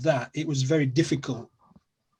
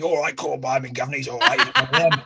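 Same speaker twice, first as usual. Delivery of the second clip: mock Cockney; 2 semitones lower than usual. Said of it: "I always make fun of people like Dick Van Dyke in Mary Poppins".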